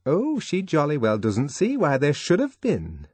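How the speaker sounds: slow sarcastic echo to the room; mocking repeat. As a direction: mimic her mockingly, slowly. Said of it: "as though to an invisible listener".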